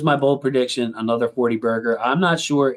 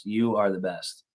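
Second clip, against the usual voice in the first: slower, softer, heartfelt repeat; sincere thanks; 5 dB quieter than usual. Real, not acted. Streamer thanking a generous viewer, slow and heartfelt. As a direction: say it again and really mean it.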